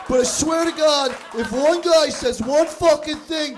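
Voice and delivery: angry audience guy. Retold or imitated. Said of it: "You, in your head, were like".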